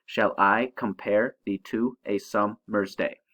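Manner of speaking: "Shall I compare thee to a summer's day" in unaccented-accented pairs; iambic stress. Shown as a demonstration. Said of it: "unaccented followed by accented".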